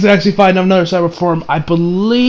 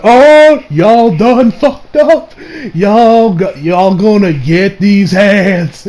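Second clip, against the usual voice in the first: mock threat; much slower than usual. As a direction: lay it on like you're about to start a fight. Viewer threatens the bullies.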